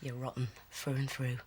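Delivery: soft, hushed disgust; disgusted whisper. Acted. Hushed quarrel.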